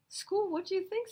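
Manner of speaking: put-on high, loud cheeky kid; cheeky boy. Boy answering Sammy in line, high cheeky voice. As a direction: toss it off like a know-it-all boy.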